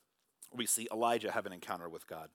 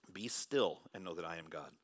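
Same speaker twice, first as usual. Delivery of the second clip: soft repeat; 5 semitones lower than usual. Acted. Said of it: "Psalm forty-six ten says".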